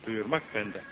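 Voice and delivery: "Duyurmak benden" çok daha alçak ve pes, fısıldar gibi değil ama yumuşak; sözü içten, alçak sesle yinele; alçak sesle tekrar. Shown as a demonstration. ("Duyurmak benden" alçak, pes ve yavaşça vurgulanarak)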